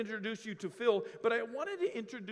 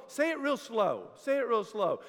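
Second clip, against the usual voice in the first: say it real slow; 3 semitones higher, 4 dB louder than usual. Retold or imitated. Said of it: "When you just keep like".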